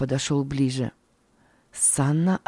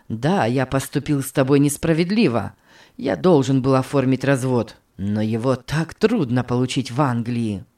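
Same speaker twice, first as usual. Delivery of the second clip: wounded pleading husband; 4 semitones lower than usual. Acted. Bernhard pleads softly.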